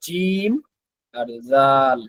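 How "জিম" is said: জিম with a firm, hard opening; hard jim. Shown as a demonstration. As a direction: land the start of জিম hard. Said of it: "জিমটা একটু শক্ত হবে".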